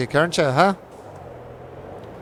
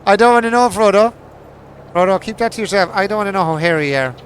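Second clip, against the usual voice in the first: mock protest; 6 semitones higher, 6 dB louder, faster than usual. Real, not acted. Teasing friend, mock protest.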